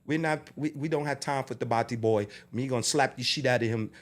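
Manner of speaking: loosely attempted Jamaican accent. Jamaican promoter turns down the caller, in a rough Jamaican accent. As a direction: imitate a Jamaican lady, lightly. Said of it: "I wish I knew her accent".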